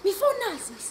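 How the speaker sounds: soft, slow shushing; calm her down in a soft, slow voice; slow hush. Acted. Hushing the raving grandmother.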